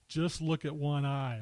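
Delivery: slow, emphatic mock reprimand; mock scolding. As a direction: lightly imitate a crab telling someone off. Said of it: "and he gets after her".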